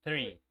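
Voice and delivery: THREE opening on a hissed TH; Three with a snake-like TH. Shown as a demonstration. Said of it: "como esa serpiente".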